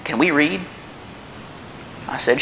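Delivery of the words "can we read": put-on higher, eager little boy asking; lightly voiced child asking his dad; young son asking. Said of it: "Jacob comes up to me and goes".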